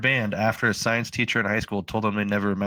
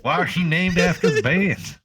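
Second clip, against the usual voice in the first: imitating mockers; 8 semitones higher, 4 dB louder than usual. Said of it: "How'd that go again".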